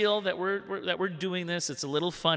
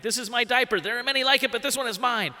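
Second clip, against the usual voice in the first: solemn soldier's creed, pitched up and pushed; Full Metal Jacket creed; 8 semitones higher than usual. Retold or imitated. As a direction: recite it like a drill-sergeant creed. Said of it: "kinda turns into Full Metal Jacket".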